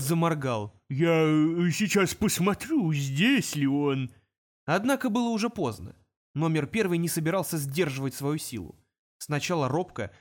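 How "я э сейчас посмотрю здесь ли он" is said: flustered demon. Acted. Demon suddenly cowed.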